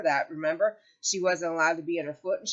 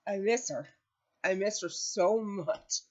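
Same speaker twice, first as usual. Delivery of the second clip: slow, holding back real tears; close to tears; 3 dB quieter, slower than usual. Real, not acted. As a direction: say it missing her deeply. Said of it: "I think I'll bust out crying".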